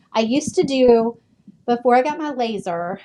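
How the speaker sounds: breathless, winded from walking around; speaking while out of breath. Real, not acted. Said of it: "I'm, like, breathless".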